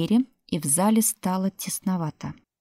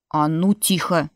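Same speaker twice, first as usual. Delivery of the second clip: barked order; 3 dB louder than usual. Acted. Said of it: "рявкнул Фрол Матвеевич".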